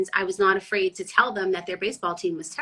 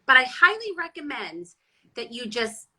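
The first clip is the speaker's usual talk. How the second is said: mock calm threat; 5 semitones higher than usual. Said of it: "this actually is chill".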